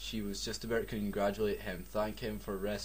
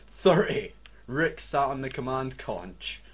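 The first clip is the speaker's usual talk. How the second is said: dramatic countdown; 3 semitones higher than usual. Acted. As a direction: build the tension second by second. Dramatic countdown while reading.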